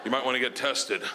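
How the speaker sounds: low, hesitant deadpan; producer breaking news. Acted. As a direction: break it to him awkwardly.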